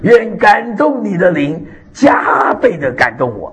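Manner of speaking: slow, steady prayer for all to repeat; prayer demo. Shown as a demonstration. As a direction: lead the congregation in the prayer. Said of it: "我们大家都学会这个祷告".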